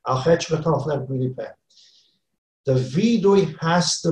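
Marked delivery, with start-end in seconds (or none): 0.1-1.5 gabbled fast and mumbled; a careless fast prayer with slurred words; rushed, improper confession. Shown as a demonstration. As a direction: rattle it off without meaning it. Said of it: "You're confessing that you're improperly confessing".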